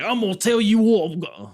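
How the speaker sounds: very high, loud, failed Scouse threat; badly faked Scouse heel voice, breaking off; botched Liverpool accent. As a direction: attempt Scouse and lose it midway. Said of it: "what the fuck was that accent?".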